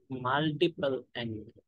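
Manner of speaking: multiple angle stretched very slowly, level ending; slow dictation. Shown as a demonstration. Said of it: "slow dictation of the topic".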